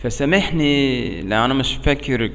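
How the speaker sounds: American-accented broken Arabic; learner's Arabic with an American accent. Real, not acted. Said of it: "عربي مكسر".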